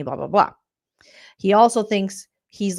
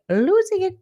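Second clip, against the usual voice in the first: mock frantic; 11 semitones higher than usual. Vlogger mocks houseguest, high squealed losing it. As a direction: shriek losing it like she's unhinged. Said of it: "But she's, like".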